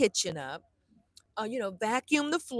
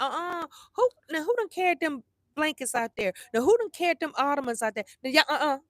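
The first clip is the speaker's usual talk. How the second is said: mock scolding, a touch louder and higher; hammed-up fussing at the kids about the blankets; old scolding self; 5 semitones higher, 3 dB louder than usual. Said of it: "the old me woulda shut it down".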